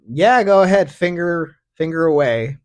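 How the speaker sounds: hammed-up eager female voice; eager girl. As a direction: chirp it like a willing girl. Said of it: "If that female is like".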